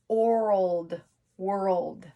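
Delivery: world said slowly for spelling; sounded-out spelling word. Shown as a demonstration. Teacher to kids, sounding out world. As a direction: stretch world out for young writers. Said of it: "we have that D with the donut".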